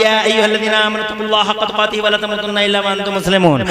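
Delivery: rapid recitation on a level note; Quran recitation. Real, not acted. Preacher quoting what Allah commands, rapid Arabic recitation. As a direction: recite the verse swiftly in one run.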